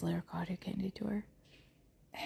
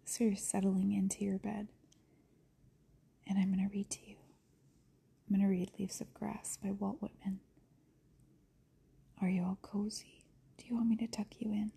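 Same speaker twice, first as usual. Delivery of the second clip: soft, hushed bedtime-reader voice; ASMR character; 6 dB quieter than usual. Acted. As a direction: gently settle the listener into bed, keeping it soft. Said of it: "let me try to get into a character, an A S M R character".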